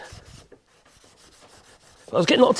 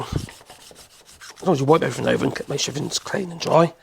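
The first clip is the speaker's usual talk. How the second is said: hoarse voice; 3 semitones lower, 3 dB quieter than usual. Real, not acted. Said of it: "Lose my voice, I am".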